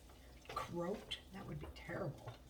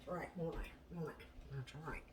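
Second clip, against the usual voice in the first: ordinary talk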